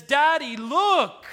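put-on high, loud little-girl plea to daddy; pleading daughter. Daughter bringing home the baby to Pharaoh, high eager plea. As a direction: call out to Dad like an excited daughter.

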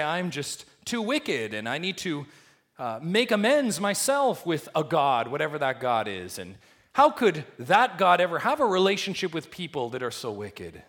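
loud, pleading voice of a burdened believer; voicing other religions. Preacher voicing a guilt-ridden seeker, loud and pleading. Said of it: "Other religions would say".

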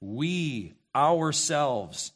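We ourselves drawn out very slowly, ourselves weighted; emphatic, slow We ourselves. Shown as a demonstration. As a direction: stretch out We ourselves with heavy weight on ourselves. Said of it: "Very, very emphatic in the Greek".

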